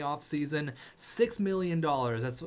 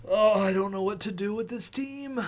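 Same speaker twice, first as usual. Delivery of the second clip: high, louder exasperated outburst; exasperated groan; 5 semitones higher, 4 dB louder than usual. Real, not acted. Fan groaning at his eliminated team in exasperation. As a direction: throw up your hands at the team.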